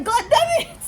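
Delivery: shrill, very high burst of a yell; mock yell. Instructor yelling as the car nears seventy, very high yell. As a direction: scream it like the instructor losing it. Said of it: "He was like".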